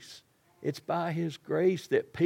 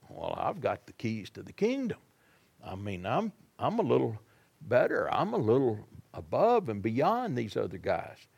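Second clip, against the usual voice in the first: smug Peter; 4 semitones lower than usual. Retold or imitated. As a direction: muse to yourself, a little full of yourself. Peter's smug thoughts, voiced.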